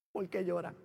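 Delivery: low, soft repeated question; imitated hushed voice of God; gentle voice of God. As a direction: ask tenderly, barely raising the voice. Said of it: "oigo el susurro de la voz de Dios".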